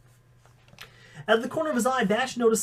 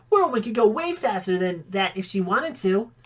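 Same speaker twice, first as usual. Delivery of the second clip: put-on scoffing kid; 2 semitones higher than usual. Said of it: "Bree scoffed".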